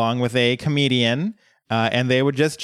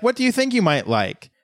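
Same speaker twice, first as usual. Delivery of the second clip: high, sing-song condescending ask; a hint of a smug mentor; mock patronizing question; 9 semitones higher than usual. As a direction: talk down to him sweetly. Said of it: "they're like".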